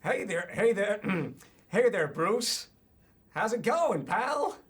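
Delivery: attempted New Jersey accent, swinging up high. Shown as a demonstration. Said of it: "get that New Jersey accent in".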